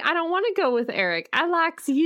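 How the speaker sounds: lightly voiced ditzy Sookie; mock Sookie. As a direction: play her as a dim, simpering girl, fast. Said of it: "But she's like".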